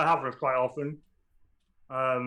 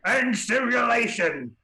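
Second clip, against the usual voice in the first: loud, high, slow shout of command; barked command; 9 semitones higher, 5 dB louder, slower than usual. Acted. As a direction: call it out to the room. NPC calls out command.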